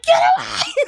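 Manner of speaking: very high, loud comic shriek; mock screaming. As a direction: shriek at strangers in hammed-up outrage. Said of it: "screaming at these people".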